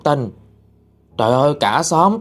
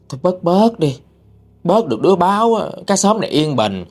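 higher-pitched, pouty dismissive retort; pouting disdain; 6 semitones higher than usual. Retold or imitated. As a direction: imitate a scornful gossip with a pout. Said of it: "Cổ cũng trề môi". (giả giọng trề môi chê bai)

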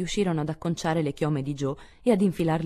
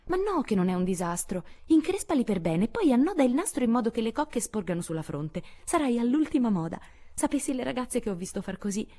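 bright, reassuring coaxing; Amy comforting Meg over her hair; consoling; 8 semitones higher than usual. A narrator's reading. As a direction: cheer her sister up. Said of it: "in tono consolatorio".

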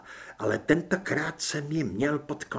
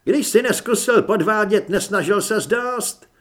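ghost's voice; 6 semitones higher, 7 dB louder than usual. Acted. Duch se vysmívá.

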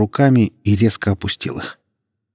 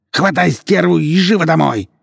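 furious order; 10 semitones higher, 5 dB louder than usual. Acted. Abbas ordering son furiously.

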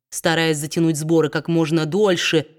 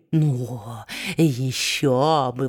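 mocking exclamation; 6 semitones lower, 3 dB quieter, much slower than usual. A narrator's reading. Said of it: "воскликнул Квилп".

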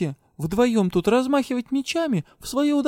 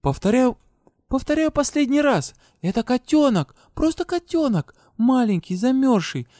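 much higher, firm and indignant; resolute declaration; 10 semitones higher than usual. A narrator's reading. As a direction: lay down the law, defending the kitten. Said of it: "решительно поднялась и заявила". (решительное заявление Деи)

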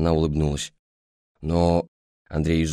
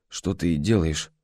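strained; 3 semitones lower, 4 dB quieter, slower than usual. Acted. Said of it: "сдавленно проговорил Андрей".

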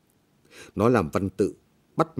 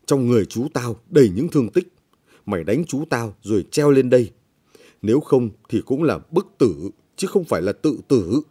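glowering accusation; 3 semitones higher, 4 dB louder than usual. Acted. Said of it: "Nó hầm hầm".

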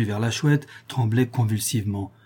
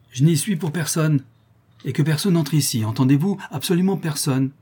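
higher, insistent order; firm command; 5 semitones higher than usual. Acted. Countess giving orders to her servant, firm command. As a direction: lay down a strict instruction.

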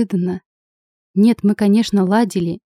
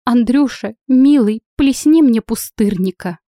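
с всхлипом; 4 semitones higher, 4 dB louder than usual. Acted. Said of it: "громко всхлипнула".

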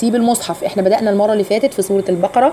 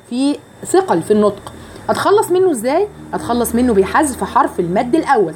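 ordinary delivery

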